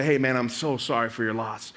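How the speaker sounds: low, soft condolence; sympathetic. Retold or imitated. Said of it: "to kind of support him".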